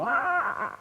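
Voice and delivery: a sudden high cry, half-hearted; mock scream. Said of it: "el alemán pega un grito".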